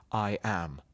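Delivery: "I am" with the weight on am; light da-DUM, landing on "am"; iambic stress. Shown as a demonstration. Actor demonstrating the iamb, stress on am. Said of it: "with the stress on the second part".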